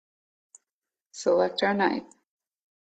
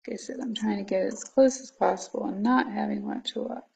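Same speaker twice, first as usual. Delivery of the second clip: whispering; 5 dB quieter than usual. Real, not acted. Quiet whispered aside while cutting.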